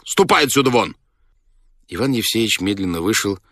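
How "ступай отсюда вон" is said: higher-pitched cross order; mildly angry general throwing someone out. A narrator's reading. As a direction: send him away crossly. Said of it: "рассердился генерал".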